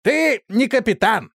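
high, loud, enraged shout; furious shout. A narrator's reading. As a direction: hurl it at him before the fight. Stuart raging at Doc.

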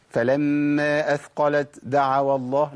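أثقلت دعوا with a whispered ت kept, slow; breathy t wrongly. Shown as a demonstration. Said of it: "أنا كده جبت همس".

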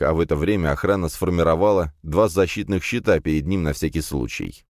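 ordinary delivery, nothing marked

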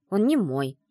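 snapping back. Acted. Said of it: "огрызнулась я".

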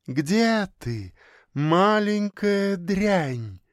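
slow, cold, menacing whisper; lightly voiced icy mannequin. A narrator's reading. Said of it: "ледяным шёпотом спросил манекен".

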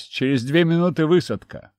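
pilot calling out over the headset; loud radio call, stress on две. Acted. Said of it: "В наушниках раздался голос пилота".

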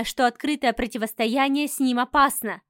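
ordinary delivery

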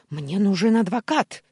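loud, high-pitched demand; angry yell. A narrator's reading. Uncle being arrested demands a lawyer, yelling. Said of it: "заорал дядя".

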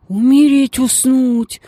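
high, loud horrified exclamation; shocked gasp. Acted. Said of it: "ахнула Геля". (испуганное восклицание, высоко и громко)

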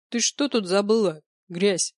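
put-on sneering, scornful young dragon; contemptuous dragon. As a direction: spit it out with contempt. (презрительно, свысока)

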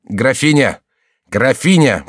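high, loud repeated shout; desperate husband yelling for his wife. A narrator's reading. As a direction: yell her name into the dark. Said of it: "продолжал кричать голос Мансаро".

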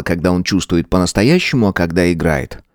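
ordinary delivery

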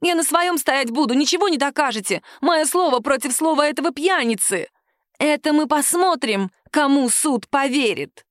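high defiant tirade; shrill defiance. A narrator's reading. Woman defies the captain, shrill and stubborn.

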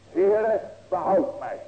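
loud plea, Heere called out at full voice; crying out. Acted. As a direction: call out for rescue as if sinking. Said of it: "buiten te roepen".

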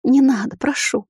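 высоко, умоляюще; взмолиться в страхе; испуганная мольба. A narrator's reading. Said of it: "замотала головой низшая". (высокий испуганный голос)

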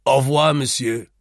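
loud, mocking au revoir with a far-off sneer; ironic farewell. A narrator's reading. The seated man mocks the leaving narrator with an ironic farewell. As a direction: send him off with open irony. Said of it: "he said ironically".

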